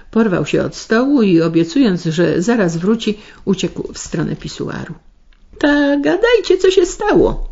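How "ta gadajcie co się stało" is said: much higher, pushy suburban woman pressing for news; high insistent prodding; insisting. A narrator's reading. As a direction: demand the story, pitched up. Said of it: "nalegała ta zza rogatki".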